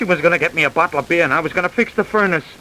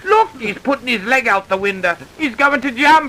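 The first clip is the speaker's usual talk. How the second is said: alarmed shouting; 5 semitones higher than usual. Acted. Man about to jump.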